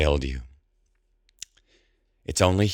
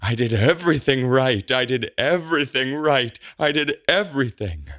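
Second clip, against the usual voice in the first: high, frantic yelling; high-pitched furious protest; enraged yell; 11 semitones higher, 4 dB louder than usual. A narrator's reading. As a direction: yell it at the top of your range, possessed with rage. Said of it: "and yells".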